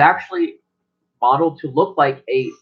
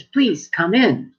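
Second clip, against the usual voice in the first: under gnome welcome; 8 semitones higher, much slower than usual. Acted.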